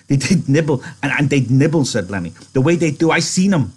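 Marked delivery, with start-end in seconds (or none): 0.1-1.8 much higher, louder, tumbling eagerness; eager Lenny. Acted. Lenny begging George to describe the rabbits, eager. 2.5-3.7 much higher, louder, tumbling eagerness; eager Lenny. Acted. Lenny begging George to describe the rabbits, eager.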